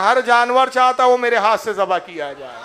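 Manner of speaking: answered with a light laugh; smiling. Acted. The Prophet smilingly explains to companions, with a laugh. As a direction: let a smile and chuckle colour it. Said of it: "تو سرکار مسکرائے".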